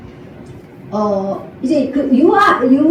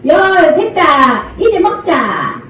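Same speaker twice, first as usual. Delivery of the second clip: slow count finish; 2 semitones higher, much slower than usual. Shown as a demonstration. Mom ending the count to ten for the baby, slow and drawn out. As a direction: stretch the last count, then say it's time to eat. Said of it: "열까지 꼭씩".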